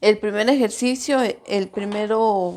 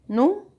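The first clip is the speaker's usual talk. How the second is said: NÚ high and rising, then ME, then RO; número in three beats with long gaps, NÚ raised; split into syllables; 7 semitones higher, much faster than usual. Shown as a demonstration. Teacher showing students how número divides, syllable by syllable. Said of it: "Dónde tiene la mayor fuerza de voz".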